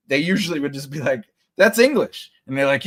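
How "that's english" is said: imitating an indignant bystander, higher and louder; mock objection. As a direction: call them out, playfully acted. Imitates the fooled guy objecting.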